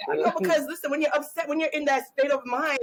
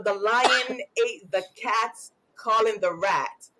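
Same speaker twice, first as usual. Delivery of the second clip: put-on child reading slowly, stumbling; slow halting reading; 3 semitones lower, slower than usual. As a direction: read it haltingly like a struggling kid. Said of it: "say something".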